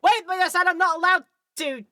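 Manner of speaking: Phoenix. Retold or imitated. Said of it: "I can imagine Phoenix is like".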